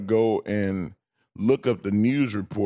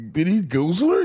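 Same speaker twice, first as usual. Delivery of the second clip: shocked outburst; 9 semitones higher, 3 dB louder, faster than usual. Retold or imitated. Retelling his shocked reaction to attack.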